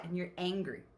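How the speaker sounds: ordinary talk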